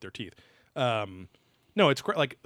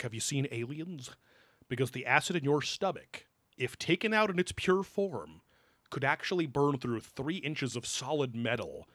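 imitating teacher. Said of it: "he would talk like that".

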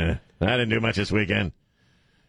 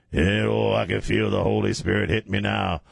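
low preacher voice starting to lift; imitated sermon, gathering steam; preacher building up; 3 semitones lower than usual. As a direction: begin to feel the spirit rising. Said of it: "he just builds himself up".

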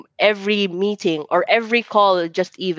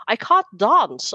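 mock British English accent; 3 semitones higher, slower than usual. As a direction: imitate a proper British accent, lightly. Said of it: "speaking to them, I was like".

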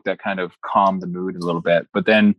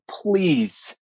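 higher, drawn-out retold plea; pleading; 8 semitones higher than usual. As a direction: imitate begging for your life. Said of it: "pleading and saying".

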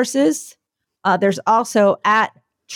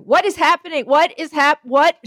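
baffled; 8 semitones higher than usual. Retold or imitated. Two people baffled by events.

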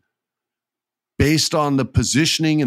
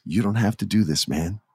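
gentle, understated plea; softly imitating a pleading wrestler; sweet and tender; 4 dB quieter than usual. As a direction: act a small, tender appeal to a friend. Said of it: "he plays it so sweet".

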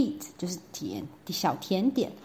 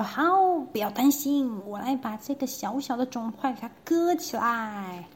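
eager general; 4 semitones higher than usual. Acted. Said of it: "就说".

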